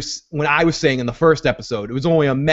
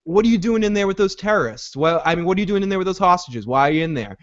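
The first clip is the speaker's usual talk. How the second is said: pitched-up mock questioning, settling at the end; lightly acted, higher-voiced puzzlement; puzzled president; 4 semitones higher than usual. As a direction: imitate a baffled president pressing for answers. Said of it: "he goes".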